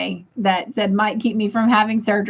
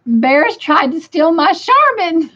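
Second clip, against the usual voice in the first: amused; 6 semitones higher, 4 dB louder than usual. Real, not acted. Reading a funny chat comment aloud.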